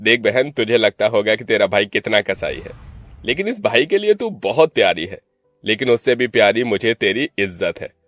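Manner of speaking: mildly affectionate elder brother; understated brotherly fondness; showing affection. Acted. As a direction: reassure a scared sister, with firm weight. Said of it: "प्यार जताते हुए कहा".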